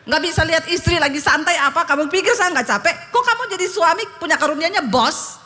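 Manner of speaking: high-pitched scolding wife; retold angry yelling. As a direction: re-enact telling off a husband. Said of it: "Saya teriak".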